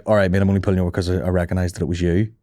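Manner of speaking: low, matter-of-fact cop voice; turning serious. Retold or imitated. Imagined cop correcting a cheeky driver, low and serious. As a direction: drop low into official seriousness. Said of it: "it would get all serious".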